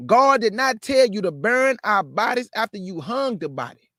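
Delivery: building, emphatic street-preacher cadence; fiery preaching litany. Acted. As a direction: hammer each God did not tell you line.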